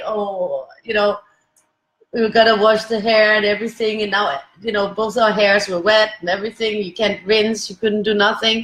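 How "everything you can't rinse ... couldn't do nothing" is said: ordinary talk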